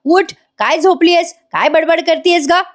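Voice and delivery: stern constable. Acted. Constable wakes prisoner.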